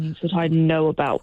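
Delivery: teasing impression of a radio host; put-on talk-radio host; mock radio voice. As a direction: intone it like a self-important presenter. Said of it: "doing your radio voice".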